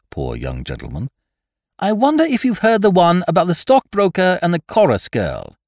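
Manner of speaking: put-on high, distraught young toff. Wooster scrambling for a story, distraught and high. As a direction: grasp at straws, rattled.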